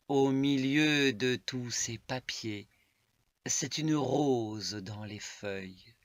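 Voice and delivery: measured poetic reading, falling at line ends; poem recitation. Acted. Reading a love poem to listeners, measured recitation. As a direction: recite it in deliberate, spaced phrases.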